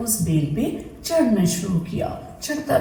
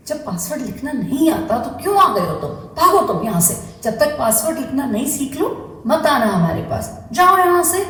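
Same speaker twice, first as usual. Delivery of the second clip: scolding pear; 3 semitones higher than usual. Acted. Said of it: "पेड़ भी बहुत जोर से चिल्लाई".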